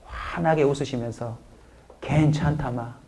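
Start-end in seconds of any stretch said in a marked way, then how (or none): 2.0-2.9 put-on Gyeongsang dialect, much quieter. A preacher demonstrates the phrase for the congregation in gyeongsang dialect. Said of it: "경상도 사투리로 제가 바꿔서".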